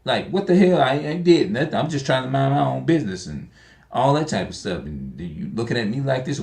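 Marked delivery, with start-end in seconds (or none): 0.3-3.2 mock cussing out. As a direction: tell them off, offended and innocent. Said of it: "you find yourself cussing them out".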